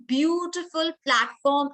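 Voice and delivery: "beautiful" drawn out slowly and stressed; emphasis on BEAUTIFUL. Shown as a demonstration. Teacher shows which word judges should remember, stress on "beautiful". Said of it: "I'm emphasizing on the word beautiful".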